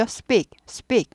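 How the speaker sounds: speak, speak, both with unaspirated p; short falling speak with a hard p; tense-p speak. Shown as a demonstration. Teacher repeating for learners, tense-p speak. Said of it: "된 소리가 되죠".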